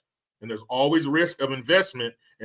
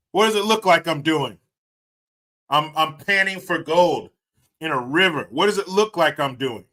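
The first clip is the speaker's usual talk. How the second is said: mock annoyed retort; 4 semitones higher, 4 dB louder than usual. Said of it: "That's every man's first answer".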